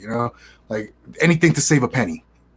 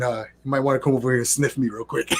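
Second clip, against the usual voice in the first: laughing; 2 semitones lower, 5 dB quieter than usual. Real, not acted. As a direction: crack up as you say it. Joking to coworkers, laughing.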